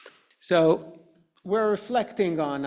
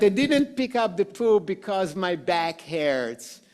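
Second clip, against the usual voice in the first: rationalize it as you go, half-joking; making excuses; 2 semitones higher, 3 dB louder than usual. Acted. Speaker mimics people excusing not picking up poo, mock defensive. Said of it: "so often we do things, "Yes, but".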